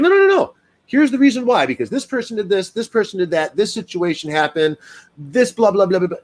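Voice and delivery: high excited protest; retelling my own worked-up excuse; animated self-defense. Retold or imitated. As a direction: insist fast and defensive, voice jumping up. Retold heated self-defense.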